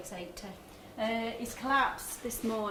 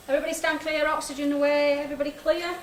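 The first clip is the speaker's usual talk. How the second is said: calling out; 5 semitones higher, 4 dB louder than usual. Real, not acted. Defibrillator safety calls to team.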